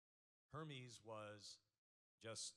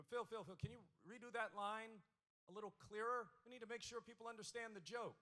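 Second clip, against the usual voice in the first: booth director; 11 semitones higher, 6 dB louder than usual. Retold or imitated. Quoting the booth's notes.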